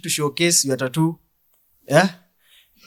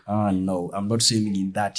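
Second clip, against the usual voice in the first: lightly voiced Jesus; 6 semitones lower, 6 dB quieter than usual. Jesus refuses the water.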